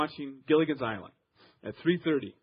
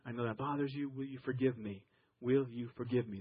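humble apology; 3 semitones lower, 4 dB quieter than usual. Shown as a demonstration. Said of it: "with these words".

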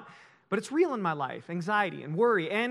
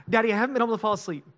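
put-on tearful child; 3 semitones higher, 5 dB louder, much faster than usual. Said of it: "in tears".

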